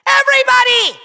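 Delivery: high triumphant yell; boastful shout. Acted. Villain boasts his lead was expected, boastful shout. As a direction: crow it to the crowd.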